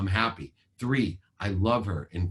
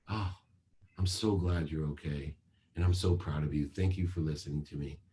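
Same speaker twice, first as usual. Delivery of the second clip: relieved, proud father; 3 semitones lower, 4 dB quieter than usual. Retold or imitated. Relieved father praises daughter.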